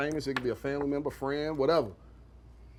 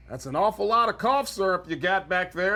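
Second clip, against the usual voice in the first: police officer voice; 2 semitones higher than usual. Retold or imitated. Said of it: "And the police says".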